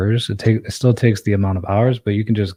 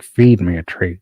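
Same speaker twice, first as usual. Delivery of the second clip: cat voice; 7 dB louder, slower than usual. Pretend. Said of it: "He's like".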